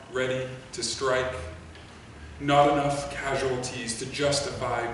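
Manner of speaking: slow, measured poem recital with long pauses; solemnly paced verse, every phrase set apart; poetry reading. Acted. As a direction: read it line by line, letting each phrase hang. Reads a poem aloud.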